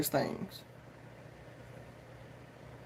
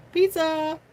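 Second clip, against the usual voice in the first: excited exclaim; 8 semitones higher than usual. Real, not acted. Craving pizza, exclaims.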